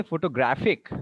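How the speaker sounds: photoGRAPHic, weight on the third syllable; stress on graph. Shown as a demonstration. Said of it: "the stress is now on the graph".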